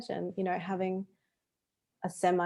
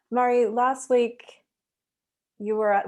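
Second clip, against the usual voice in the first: a touch of the reporter, higher and louder; 4 semitones higher, 5 dB louder than usual. Real, not acted. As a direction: sound like a reporter opening an interview. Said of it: "why do I sound like a reporter".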